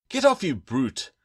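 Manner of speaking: half-playful yelled protest; mock protest. A narrator's reading. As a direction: push her away with a laughing shout. Adrian blinded by sister's hands.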